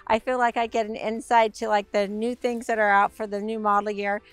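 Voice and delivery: hoarse, worn-out voice; raspy voice. Real, not acted. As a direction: talk through a raspy throat. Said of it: "I have a little bit of a raspy voice".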